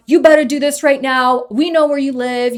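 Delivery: mock threat. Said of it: "they started threatening me".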